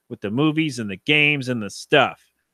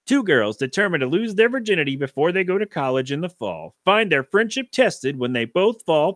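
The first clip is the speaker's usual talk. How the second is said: movie trailer guy voice; 3 semitones higher than usual. Shown as a demonstration. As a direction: announce it like a film trailer. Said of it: "my best movie trailer, uh, guy voice".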